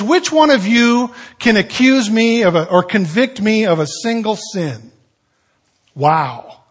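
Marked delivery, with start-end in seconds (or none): 0.0-4.9 bold challenge. Retold or imitated. Jesus challenges the crowd.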